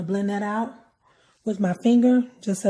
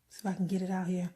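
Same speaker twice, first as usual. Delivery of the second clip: whispering; 9 dB quieter, faster than usual. Real, not acted. Quick aside while applying liner.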